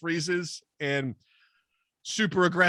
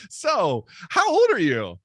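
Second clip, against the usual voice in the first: slow, drawn-out sultry ask; flirty question; 4 semitones higher, slower than usual. Retold or imitated. Woman asking narrator his age, slow and teasing. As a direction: stretch it out teasingly. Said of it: "She's like".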